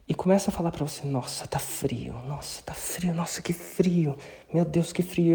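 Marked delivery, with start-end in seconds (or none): 1.1-5.3 slow, hushed complaining about the cold; in ice cold water. Shown as a demonstration. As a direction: groan about the freezing shower. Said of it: "Eu quero que você jogue o jogo assim, intencionalmente, com intensidade".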